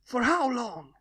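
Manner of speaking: high small voice echoing the question; baby dragon repeats the question back, lost; confused child. Acted.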